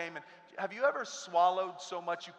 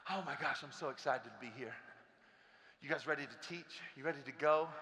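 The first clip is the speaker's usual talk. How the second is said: softer, lower, drained version of the greeting; worn-out teacher; 3 semitones lower, 5 dB quieter than usual. Acted. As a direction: drag yourself through the same cheer. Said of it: "walk into work like this".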